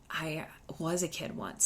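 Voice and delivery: breathy whisper, tossed off as an aside; soft whispered joke. Real, not acted. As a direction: drop to a whisper for the confession. Aside to the listener.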